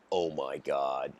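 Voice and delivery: imitated hopeless groan, slowed right down; mock disappointed robot. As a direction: play a robot crushed by its purpose. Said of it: "gets so disappointed and hopeless".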